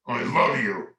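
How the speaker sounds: "I love you" with a strong push on "love"; subtext shown by inflection. Shown as a demonstration. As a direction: lean hard on "love" to twist the meaning. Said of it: "That does not mean the same thing at all".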